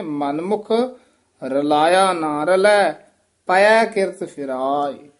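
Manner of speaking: ਹੌਲੀ ਤੇ ਜ਼ੋਰ ਨਾਲ ਸਹੀ ਉਚਾਰਨ; slow careful correction. Shown as a demonstration. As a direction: read it out slowly and firmly to correct the student. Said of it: "ਹਾਹਾ ਨਹੀਂ ਹੈ".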